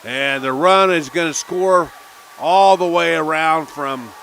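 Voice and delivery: loud, high, rapid-fire call as the run scores; excited play call. Real, not acted. Announcer shouting the big play to radio listeners, excited and loud. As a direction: let it erupt as the ball gets away.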